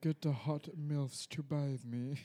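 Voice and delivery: put-on spoiled rich boy. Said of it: "royal daddy's boy".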